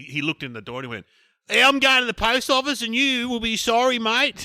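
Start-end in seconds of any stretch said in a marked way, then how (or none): 1.5-4.4 mock parting threat.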